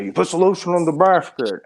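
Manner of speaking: high, eerie villain line delivery; creepy movie villain voice. Retold or imitated. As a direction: menace it out in a creepy voice. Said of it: "Do the voice".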